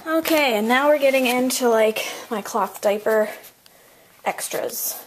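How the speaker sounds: breathless, short of air; out of breath. Real, not acted. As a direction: speak while winded from moving. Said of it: "I'm so sorry that I'm so out of breath".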